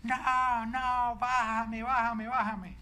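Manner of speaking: put-on high, loud frightened child pleading; mock panicked child yelling bájame; imitating child's scared scream. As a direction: cry out like a scared little boy begging to get down. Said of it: "él empezaba a gritar".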